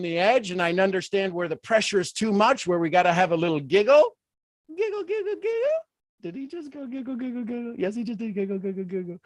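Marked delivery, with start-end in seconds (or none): 4.7-5.8 much higher, playful silly squeak; squeaky giggle. Pretend. Coach playing silly to lighten the mood. 6.2-9.2 mock audience voice.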